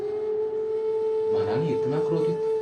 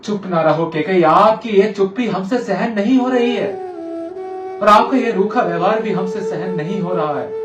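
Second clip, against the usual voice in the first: raised, pained entreaty; anguished pleading; 2 semitones higher, 4 dB louder than usual. Acted. King unable to bear his queen's silence, anguished pleading.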